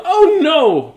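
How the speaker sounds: high, loud, drawn-out cry; full-voiced melodramatic shout; mother yelling. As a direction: yell it in horrified dismay. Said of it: "Julie's mother yelled".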